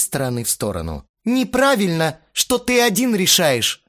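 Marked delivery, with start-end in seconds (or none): 1.2-3.8 high, loud protest; heated objection. A narrator's reading. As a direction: object in a raised voice. Astarot protests in the quarrel. (возмущённо, громко)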